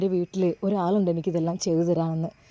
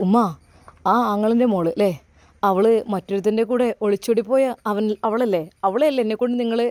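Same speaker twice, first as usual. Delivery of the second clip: angry son; 3 dB louder than usual. Acted. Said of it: "അവന് ദേഷ്യമാണ് വന്നത്".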